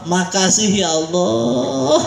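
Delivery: very slow, stretched-out thanks to God; drawn-out thanks. Shown as a demonstration. Preacher models thanks to Allah for congregation, drawn out. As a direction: draw out the vowels for all to follow. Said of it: "ini bahasa kita".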